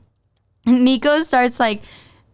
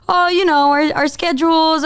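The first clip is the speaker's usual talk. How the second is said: higher-pitched, hesitant excuse; mock nervous waffle; nervous stuttering; 4 semitones higher than usual. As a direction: imitate someone fumbling a nervous answer. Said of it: "nervous and stuttering".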